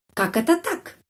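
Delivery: high, indignant Как это так; emotional. Shown as a demonstration. Teacher repeats the phrase with emotion for the class. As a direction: sound outraged and amazed. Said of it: "di sana ada emosi".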